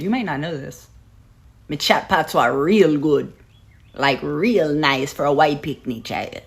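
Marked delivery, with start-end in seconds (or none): 1.7-6.4 slow, drawn-out Jamaican patois. Shown as a demonstration. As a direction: show off a leisurely Jamaican accent. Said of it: "my Jamaican accent".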